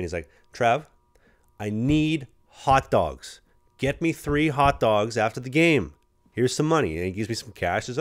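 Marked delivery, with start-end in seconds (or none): 0.5-7.0 higher, louder, insisting on his hot dogs; hammed-up bossy vet ordering the rookie; mock demand. Teammate orders the rookie to fetch hot dogs, mock demand.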